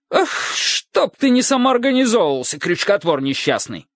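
high, outraged indignant outburst; shaking with rage. Acted. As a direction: sputter it out in fury. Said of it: "Трурль прямо затрясся".

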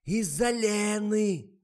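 очень громкий высокий крик; кричит глухой старухе; надрывается. A narrator's reading. (надрывный громкий крик)

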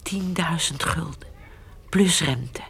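hushed whisper; secretive whisper. Acted. Whispering sum of money.

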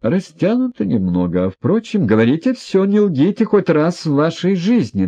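high, loud, demanding; trembling command. A narrator's reading. Ippolit demands an answer from Yevgeny Pavlovich, high and commanding. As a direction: order him to speak, voice shaking. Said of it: "дрожал и приказывал Ипполит".

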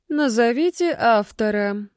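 slow, bored ghostly demand. Acted. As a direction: drag it out, utterly bored. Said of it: "скучающим голосом потребовала призрак". (скучающим голосом, медленно)

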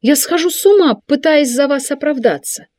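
high, loud exasperated cry; nearly shrieking with frustration; mother scolding her son, high and furious. A narrator's reading. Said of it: "Она была в ярости и гневе".

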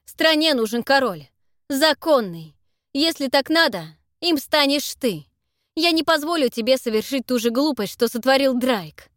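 loud, slowed, commanding; stern loud speech. Acted. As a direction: lay down the law, unyielding. Tederik lecturing Zak sternly.

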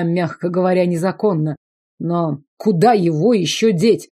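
ordinary delivery

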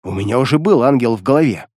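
ordinary delivery

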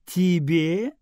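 high rising outraged "Тебе?"; mock indignation. A narrator's reading. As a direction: play at being offended. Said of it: "Аэла изобразила возмущение".

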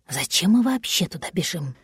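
low, softened inner voice; inward thought. A narrator's reading. Cat thinking to himself as he runs, low and soft. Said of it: "подумал он".

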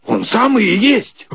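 high delighted exclamation; excited recognition. Retold or imitated. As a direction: cry out on recognizing him. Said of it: "заглянул и говорит". (радостное узнавание)

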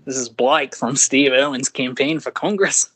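put-on cheeky Australian accent cold-call pitch, laughing through it. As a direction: read the campaign email like an Aussie caller. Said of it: "in an Australian accent".

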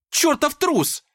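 very high, loud squeal; shrill squeak of rage. Acted. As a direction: squeak the insult out. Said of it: "пропищала Даша".

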